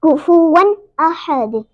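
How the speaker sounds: slow कुफुवन with a clean, unhummed N; clear N. Shown as a demonstration. Teacher models the ending, clear कुफुवन. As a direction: separate कुफुवन from अहद, bounce the D. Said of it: "गुन्ना नहीं होगा".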